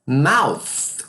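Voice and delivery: "Mouth" ending in a long hissed TH; English TH. Shown as a demonstration. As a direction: finish "Mouth" with tongue between the teeth. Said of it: "Observe o som do T H".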